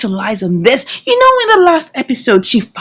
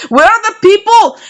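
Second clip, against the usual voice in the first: excited disbelief; 9 semitones higher, 4 dB louder than usual. Retold or imitated. Woman looking for hidden cameras.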